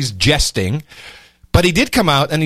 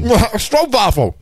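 mouth full; 5 semitones higher, slower than usual. Real, not acted. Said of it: "stroopwafelette in my mouth".

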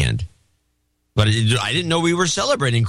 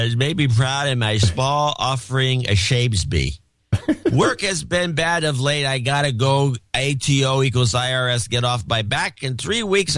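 put-on drunk voice. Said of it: "Do the drunk voice".

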